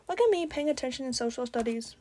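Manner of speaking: talking while chewing gum; words round a wad of gum. Real, not acted. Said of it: "I was chewing gum for most of that".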